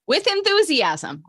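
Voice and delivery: slow, high-pitched push of enthusiasm; rousing group-leader call; enthusiastic. Shown as a demonstration. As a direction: stretch out "enthusiasm" to rally a group. Rallying group to repeat mantra.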